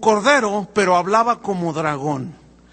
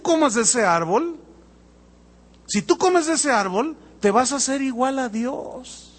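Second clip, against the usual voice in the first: smooth tempter voice; 2 semitones higher than usual. Retold or imitated. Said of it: "Te voy a decir cómo habla el dragón".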